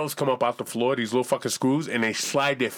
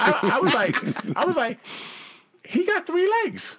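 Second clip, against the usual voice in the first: excited punchline; 12 semitones higher, slower than usual. Real, not acted. Excited punchline about dancer.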